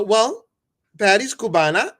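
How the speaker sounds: retold boast. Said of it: "So I go".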